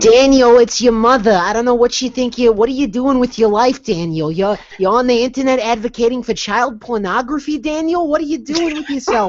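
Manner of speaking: high, loud nagging Jewish mother. Pretend. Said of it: "Are we doing Jewish mother voices?".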